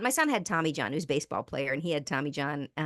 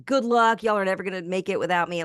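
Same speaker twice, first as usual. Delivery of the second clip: mock bitter send-off, raised voice; mildly hammed-up resentment; pissed-off ranting; 5 dB louder than usual. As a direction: act out a scornful parting shot. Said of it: "pissed off and talking crap".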